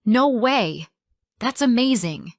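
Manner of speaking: loud, swooping delighted disbelief; amazed excitement. Shown as a demonstration. Reacting to a friend's scholarship at a cafe, amazed. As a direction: burst out thrilled for your friend.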